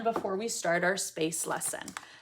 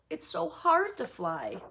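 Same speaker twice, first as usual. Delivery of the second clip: mock effort, higher voice; straining bird; 7 semitones higher than usual. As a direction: play a bird struggling to fly. Voices the struggling umbrella bird.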